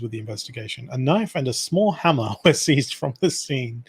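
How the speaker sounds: steady newsreader delivery of a crime report; news read. Acted. Reading a news article aloud to his friend, newsreader style. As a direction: read it out like a radio bulletin.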